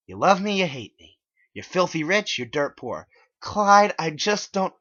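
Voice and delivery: put-on exasperated girlfriend rant; exasperated Megan. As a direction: vent frustration.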